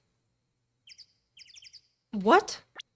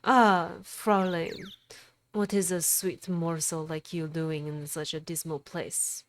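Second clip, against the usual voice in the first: put-on failed German accent. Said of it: "I can't do a German accent".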